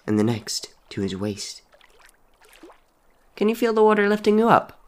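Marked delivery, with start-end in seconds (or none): 3.4-4.8 high, eerie coaxing voice; ghostly dead boy. Acted. Dead boy coaxing Henry in the water, eerie. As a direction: coax him gently like a ghost.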